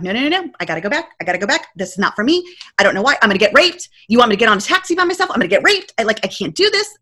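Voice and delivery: mildly panicked, insistent protest; retold freak-out. Traveler refuses the friend's taxi plan, mildly freaking out. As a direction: replay rattled objections with a touch of panic. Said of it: "And I'm freaking out".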